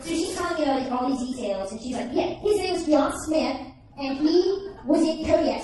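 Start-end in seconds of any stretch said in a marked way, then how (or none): 2.1-5.6 imitated eager mom. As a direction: eagerly list the details as mom. Mom excitedly giving details, retold.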